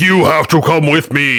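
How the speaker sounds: high, mock authoritative, commanding tone. Describing spirits appearing to a Catholic priest, retelling a commanding order. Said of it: "and all commanding".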